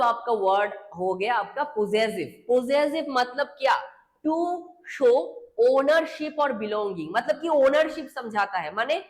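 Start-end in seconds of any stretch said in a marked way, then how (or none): 4.2-7.1 slow dictation. Shown as a demonstration. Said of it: "teacher dictating definition".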